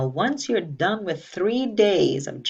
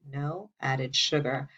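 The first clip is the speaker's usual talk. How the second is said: slow, measured teacher's repeat; spaced out for repeating along; say-it-with-me recitation; 3 semitones lower, slower than usual. Shown as a demonstration. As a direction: say it slowly so the class can join in. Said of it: "Did you say it with me".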